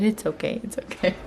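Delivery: soft, fading to a whisper; a tiny child's gentle comfort; imitating toddler comfort. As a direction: mimic the little one soothing mom. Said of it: "patted me and hugged me and said".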